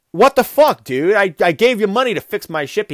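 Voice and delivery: hammed-up anger at the botched repair; mock outraged. Customer yelling at the fish mechanic over his ship, mock outrage. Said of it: "And he's like".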